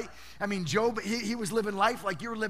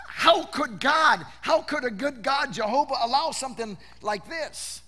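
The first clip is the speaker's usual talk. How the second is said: anguished outcry; 4 semitones higher, 5 dB louder than usual. Retold or imitated. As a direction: plead to heaven, drawing out each word. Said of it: "she's thinking".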